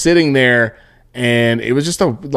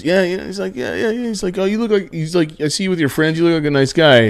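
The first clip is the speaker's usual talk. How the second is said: imitating the old Cuban guy; 5 semitones higher than usual. Retelling old Cuban guy on train.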